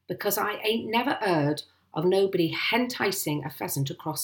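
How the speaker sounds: lightly voiced officious sergeant, misplaced aitches; measured, self-important questioning; pompous police sergeant. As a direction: play a ponderous village policeman.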